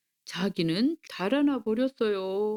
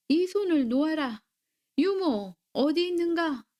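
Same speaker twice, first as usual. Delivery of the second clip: higher-pitched, restrained demand to be released; mildly angry; 6 semitones higher than usual. A narrator's reading. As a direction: order him off, then call for help, lightly acted. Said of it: "아랑은 화를 내며". (높은 목소리로 약간 화난 듯)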